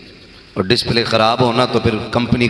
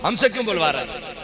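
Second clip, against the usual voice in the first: mocking smart-alecks; 9 semitones higher, 5 dB quieter than usual. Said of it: "वो कहते हैं".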